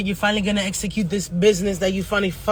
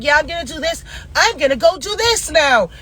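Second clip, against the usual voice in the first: higher-pitched imitation of a big talker; lightly mocking, pitched-up bragging; mock boasting; 4 semitones higher than usual. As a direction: mimic someone eagerly announcing their plans. Mimicking people who announce plans.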